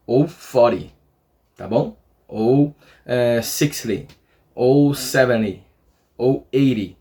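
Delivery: "forty", "sixty", "seventy", "eighty" with the T as a quick R tap; American flapped T. Shown as a demonstration. Teacher lists numbers in American accent, flapped T. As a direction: flap every ty ending like an American. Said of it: "esse T Y no final com som de R".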